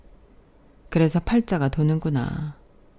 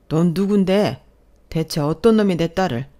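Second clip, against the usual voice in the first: indignant demand, voice raised; outraged father; 2 semitones higher, 4 dB louder than usual. Acted. Father on hearing his daughter is pregnant, outraged. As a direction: round on the culprit as an angry dad.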